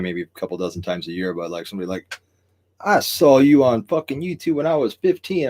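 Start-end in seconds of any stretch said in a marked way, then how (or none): 2.8-5.5 high, loud, drawn-out fan gushing; excited fan impression. Streamer quoting someone who recognizes him on the street, mock excited. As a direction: imitate a starstruck fan, pitched up and slow.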